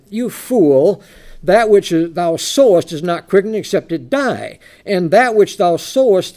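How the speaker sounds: loud, emphatic Bible reading; preacher reading out with weight on key words; scripture reading. Acted. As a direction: proclaim the verse firmly. Reads scripture aloud.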